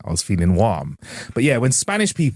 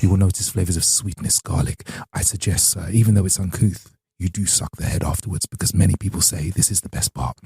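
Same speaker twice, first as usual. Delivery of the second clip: posh waiter; 3 semitones lower than usual. Retold or imitated. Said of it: "he's like".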